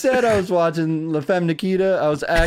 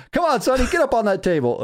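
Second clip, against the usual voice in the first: high-pitched heckling yell; mock heckler; 9 semitones higher than usual. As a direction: jeer him on like a sleazy ringside heckler. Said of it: "fucking Honky Tonk Man goes".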